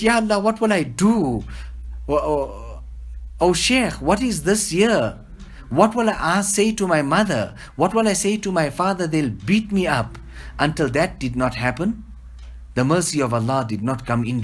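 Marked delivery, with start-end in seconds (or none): 0.0-10.2 mock-tearful child begging his Sheikh; crying child's plea. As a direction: cry out "Ya Allah" like a boy in tears, pitched high. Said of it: "and he cried".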